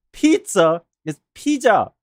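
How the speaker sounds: English "pizza", then Korean-style "pizza" as "pee-ja"; second "pizza" turns Korean, "pee-jah"; Korean pronunciation of pizza. Shown as a demonstration. Explaining the word in Korean to chat, second "pizza" said Korean-style as "pee-ja". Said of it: "in Korean".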